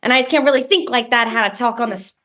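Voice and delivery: lightly put-on New Jersey accent; playful Jersey accent; iconic Jersey accent. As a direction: talk like you're from Jersey. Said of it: "You just did an iconic Jersey accent".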